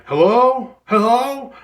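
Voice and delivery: loud, high-pitched searching holler; calling out. Retold or imitated. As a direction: imitate someone calling down the street. Imitates driver calling out in street.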